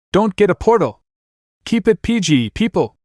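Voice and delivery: high flustered shout; embarrassed shout. Acted.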